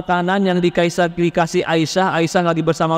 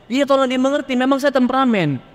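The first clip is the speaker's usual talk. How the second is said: pleading congregant; 8 semitones higher than usual. Retold or imitated. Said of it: "orang minta pengertian".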